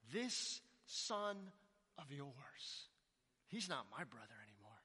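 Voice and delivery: loud, bitter rant against the brother; older brother disowning his brother to their father; contemptuous. Acted. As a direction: spit out this son of yours. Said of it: "Notice what he calls his older brother".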